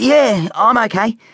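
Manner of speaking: wincing, very high-pitched voice. A hurt boy tells his mum he is okay, wincing. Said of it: "winced Specky".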